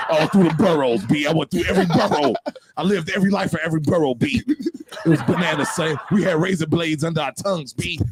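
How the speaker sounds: put-on New York accent. Hammed-up New York tough talk.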